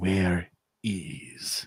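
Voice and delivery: close, hushed, leaning-in, menacing whisper. Interrogating a pinned man with a knife in his hand: whispering in character. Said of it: "He's gonna lean a little closer and whisper it".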